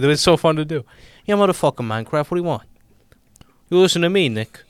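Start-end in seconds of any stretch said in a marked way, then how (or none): 1.2-2.6 mobster bravado, louder and pushed; tough-guy Italian wiseguy ranting about Minecraft; Italian gangster voice. Acted. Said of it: "I'm doing the Italian voice". 3.7-4.3 whispered mobster threat; menacing whisper. Acted. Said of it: "I'm doing the Italian voice". 4.3-4.6 mobster bravado, louder and pushed; tough-guy Italian wiseguy ranting about Minecraft; Italian gangster voice. Acted. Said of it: "I'm doing the Italian voice".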